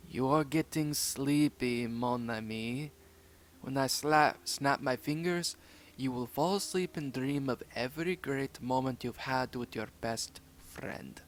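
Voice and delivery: a hypnotist putting a dog under. Acted. Hypnotising Rocky with watch.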